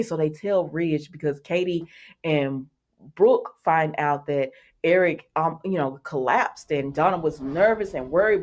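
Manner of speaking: usual speaking voice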